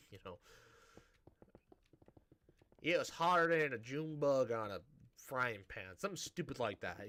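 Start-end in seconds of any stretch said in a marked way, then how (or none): 2.8-6.0 hammed-up Southern saying; mock Southern American. Shown as a demonstration. Showing listeners how to sound American, mock Southern accent. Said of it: "if you wanna sound American".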